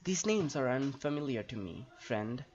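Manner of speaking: lightly voiced, formal elf helper; in-character dialogue reading. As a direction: read it like a stately fantasy character, lilting. Reads Nembadeth's game dialogue in character.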